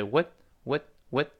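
short "what" with the final t held, not released; weak "what" with a schwa and a silent, held t; unreleased t. Shown as a demonstration. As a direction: stop the t of "what" on the tongue. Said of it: "那个t又失去爆破了".

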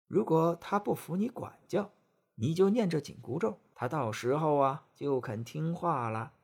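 a hint of a kindly old woman.

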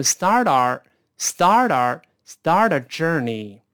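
start和our连成一串，t浊化，慢慢拖长; 慢速连读start our journey，our简化成“啊”加卷舌. Shown as a demonstration. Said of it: "跟start再跟R连读". (start our连读、拉长示范)

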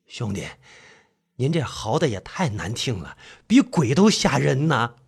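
low, soft, dry complaint; weary fifth brother. Acted. Fifth brother teasing the howling narrator, drily. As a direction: grumble it low and unhurried.

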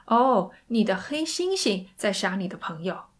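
mildly disbelieving operator; slightly sarcastic. Acted. Operator taking the call for a prank, slightly sarcastic. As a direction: answer as if suspecting a prank. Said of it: "语气立刻变了".

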